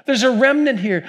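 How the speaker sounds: wry Jewish lilt explaining the remnant; Jewish accent. Acted. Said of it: "not saying God spoke it with a Jewish accent".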